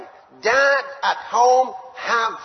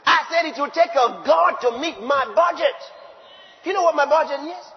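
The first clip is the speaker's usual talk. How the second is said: emphatic shout; 6 semitones higher, 4 dB louder than usual. Real, not acted. Preacher booming to the congregation. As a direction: shout it out, louder and higher.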